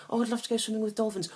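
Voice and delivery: loud, high-pitched mock enthusiasm; mocking gusher. Dolphin lover wishing to swim, mockingly imitated. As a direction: gush it in a mocking squeal.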